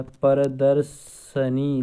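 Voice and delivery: प्रदर्शनी spoken slowly, syllable by syllable; slow it down to show the spelling; slow, careful. Shown as a demonstration. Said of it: "ये क्या लिखा जाता है?". (प्रदर्शनी धीरे से बोलना)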